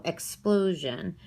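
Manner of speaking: "explosion" leaning on "plo"; stress on middle syllable. Shown as a demonstration. Teacher showing a three syllable word, middle syllable stressed. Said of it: "stress here in this middle syllable".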